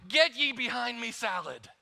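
hammed-up preacher rebuke; mock exorcism. Husband rebukes the salad in King James tone, hammed-up. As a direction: banish the salad like the devil. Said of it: "mock rebuke of salad".

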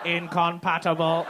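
slow, flat robot voice; robot voice, one word at a time. Real, not acted. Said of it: "Why did you say that like a robot?".

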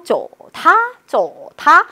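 "좋다" drawn out, dipping and lifting; pleased dipping tone. Shown as a demonstration. Teacher acting pleased for the third tone, swooping. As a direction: stretch "좋다" with pleasure through a dip. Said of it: "삼성은 좋아서".

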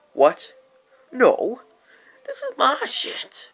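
retold squabbler claiming what's theirs; indignant retort. Jesse arguing back over the stuff, indignant.

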